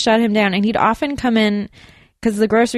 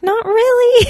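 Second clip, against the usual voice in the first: incredulous; 6 dB louder than usual. Retold or imitated. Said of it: "I was like".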